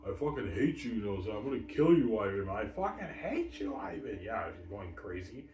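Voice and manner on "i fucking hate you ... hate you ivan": mock furious rant. Imitating V J cursing Ivan, louder angry rant. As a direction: rant at him like a jilted lover.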